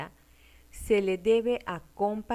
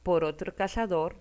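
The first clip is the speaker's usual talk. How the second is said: whispered; 4 dB louder than usual. Shown as a demonstration. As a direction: breathe the words out without voice. Teacher repeats dictation, whispered.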